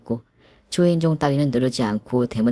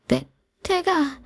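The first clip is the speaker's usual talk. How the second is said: weak pained voice; much slower than usual. Acted. Daughter groaning in pain on phone.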